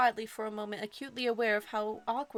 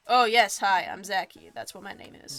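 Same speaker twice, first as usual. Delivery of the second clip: put-on 1 Southern accent; 3 semitones lower, 8 dB louder than usual. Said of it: "Maybe Southern accent could work for him".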